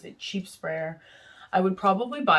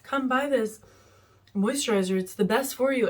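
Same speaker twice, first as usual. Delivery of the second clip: a light mock Italian salesman, pitched much higher; Italian street seller; 7 semitones higher, 3 dB louder than usual. Imitating the handsome Italian man in Vegas who sold her cream, in a light high mock voice. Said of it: "some handsome Italian man was like".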